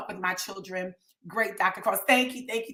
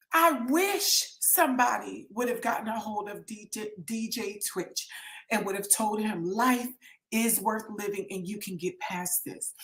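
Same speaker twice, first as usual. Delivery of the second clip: tearful; 6 dB quieter than usual. Real, not acted. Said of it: "I'm comfortable with my tears".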